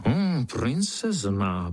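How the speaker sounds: slow, drawn-out skeptical hum; doubtful wonder. Acted. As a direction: feign surprise, slowly. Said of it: "podivil se pavouk".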